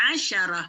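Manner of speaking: "Asyarah" opening on Arabic ain, with a sh sound; ain and shin. Shown as a demonstration. Teacher models number ten, ain and shin in "Asyarah". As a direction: say "Asyarah" with a throaty first vowel and "sh" for "sy". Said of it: "Dengan ain dan shin".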